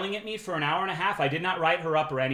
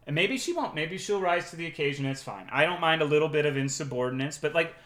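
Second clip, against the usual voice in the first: ordinary talk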